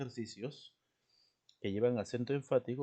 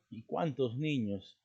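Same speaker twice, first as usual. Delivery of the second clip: slow exclamation, CUÁNTOS stressed; exclamación directa; 2 semitones higher, 3 dB louder, slower than usual. Shown as a demonstration. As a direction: draw out "cuántos" in admiration. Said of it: "Estamos haciendo una exclamación". (exclamación lenta con énfasis en "cuántos")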